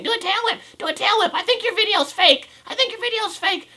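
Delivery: put-on high bratty kid voice; high whiny kid heckling; mocking scooter kids. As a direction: mimic pestering kids way up high. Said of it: "scooter kids ... saying".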